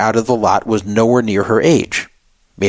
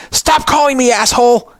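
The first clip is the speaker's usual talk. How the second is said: much higher mock scream; retold scream; 12 semitones higher than usual. The woman yelling at the caller to stop, mock scream. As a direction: shriek it like she did down the phone. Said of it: "she screamed really loud".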